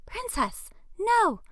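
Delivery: high, very loud shout; yell. Acted. Owner shouting at runaway dog, high and very loud. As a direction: shriek the dog's name to stop it. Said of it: "Another voice yells".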